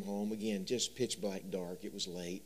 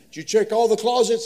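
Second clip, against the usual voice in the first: put-on much higher, louder anxious child voice; scared little boy; 12 semitones higher, 15 dB louder than usual. Frightened son asking his dad about closets, high and loud. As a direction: plead like a frightened kid.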